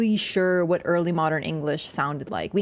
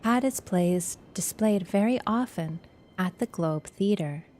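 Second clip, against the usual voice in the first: lore voice. Pretend. A hushed lore narrator for chat. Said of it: "We'll do lore voice".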